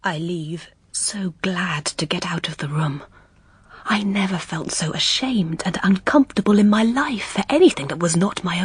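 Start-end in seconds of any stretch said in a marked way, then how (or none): 0.0-3.0 soft whispered relief on leaving; hushed relief. Acted. Governess escapes the dining room: soft whisper. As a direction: breathe it out as you slip away.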